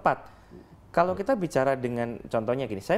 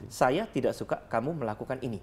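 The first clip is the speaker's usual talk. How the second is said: 1 soft-spoken anger; 2 semitones lower, 3 dB quieter than usual. Shown as a demonstration. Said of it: "cara bicara saya cukup halus".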